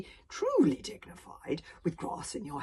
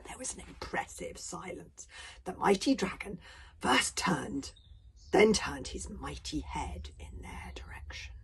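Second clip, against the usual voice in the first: hushed story narration; 6 dB quieter than usual. A narrator's reading. Storyteller hushes the listeners as the dragon turns, suspenseful hush. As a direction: let the tension hang in near-whispered narration.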